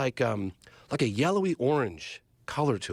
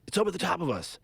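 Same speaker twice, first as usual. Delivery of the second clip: freaking out; 6 semitones higher than usual. Retold or imitated. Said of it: "they're freaking out".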